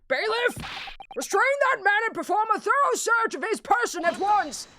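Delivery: commanding judge. Acted. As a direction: order the bailiff with full authority. Voicing judge ordering a search.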